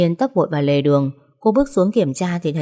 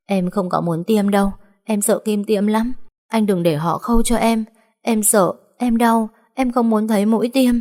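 sobbing plea; 4 semitones higher than usual. Acted. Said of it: "thổn thức".

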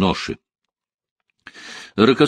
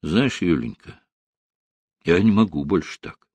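agitated; 4 semitones lower than usual. A narrator's reading. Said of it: "сказал Рокоссовский взволнованным голосом".

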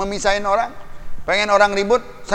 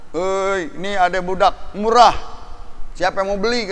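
lightly acted slave-market hawker; hawking cheap wares at market; market seller's cry. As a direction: call out a bargain to passing buyers.

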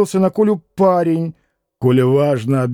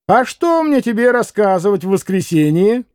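market woman's rising, higher-pitched scolding; раскричавшаяся торговка; scolding outburst; 5 semitones higher than usual. Acted. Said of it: "раскричалась Марья".

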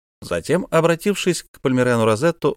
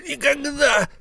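even higher shouted never; shouted refusal; slower than usual. Acted. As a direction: shout the refusal at full pitch. Miser refuses twice.

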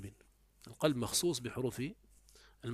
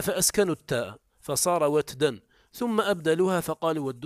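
louder reading of the quoted text; reading the text aloud; 4 semitones higher, 7 dB louder than usual. Shown as a demonstration. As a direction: read the quote out clearly. (قراءة المتن بصوت أعلى)

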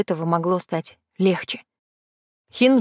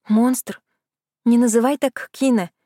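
cross; 3 semitones higher than usual. Acted. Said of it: "выдала сердито".

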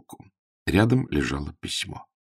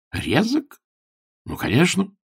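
high, mocking dismissal; scornful; 10 semitones higher than usual. Augustine scoffs at his own diary, high and mocking.

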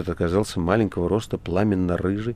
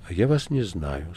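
сухо. Acted. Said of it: "сухо сказала Маргарита".

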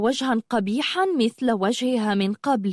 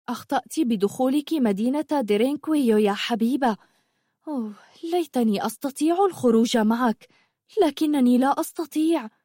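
slightly raised voice, full of regret; lightly voiced young sorceress, regretful; 4 semitones higher than usual. Zumurrud wishes she could leave with Habiba, regretful. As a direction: wish helplessly you could leave.

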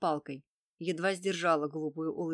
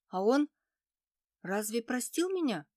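sniffling; 5 semitones higher, 3 dB louder than usual. A narrator's reading. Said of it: "схлипнув".

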